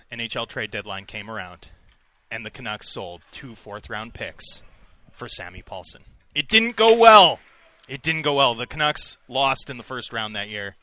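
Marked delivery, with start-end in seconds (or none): 6.3-7.4 high, loud, slow wail of woe; dramatic lament. Pretend. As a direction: mourn the loss theatrically. Dramatic payoff of sad story.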